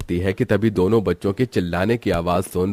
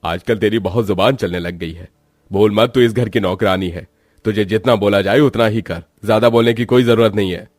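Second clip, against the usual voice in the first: angry scolding. Acted. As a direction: shut the servant up. Master scolds maid. (मालिक का नौकरानी पर झल्लाना)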